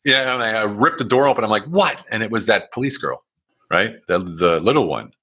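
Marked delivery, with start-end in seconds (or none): 1.7-2.0 annoyed shout. Retold or imitated. Ripped the door open angrily.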